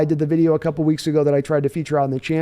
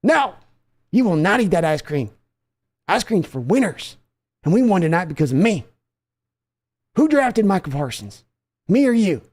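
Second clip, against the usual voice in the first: scolding father; 2 semitones higher than usual. Acted.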